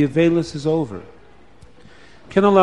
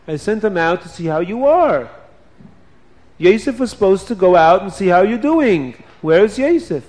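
put-on higher, worried old father; 4 semitones higher than usual. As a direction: press the sons with worry. Yaakov asks for his son.

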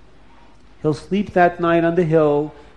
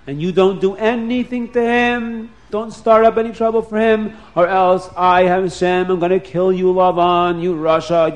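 booming voice of Hashem; 3 semitones higher than usual. Acted. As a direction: thunder the warning from above. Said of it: "Hashem said".

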